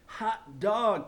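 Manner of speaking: put-on high, loud kids cheering. A narrator's reading. Kids celebrating the principal leaving, cheering. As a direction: whoop it out.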